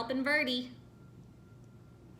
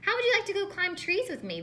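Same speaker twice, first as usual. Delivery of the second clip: inviting; 10 semitones higher, 5 dB louder, faster than usual. Acted. Verdi invites the yellows.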